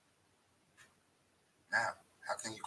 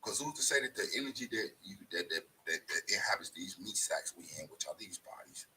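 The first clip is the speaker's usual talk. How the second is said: hushed intensity; 4 dB quieter than usual. Real, not acted.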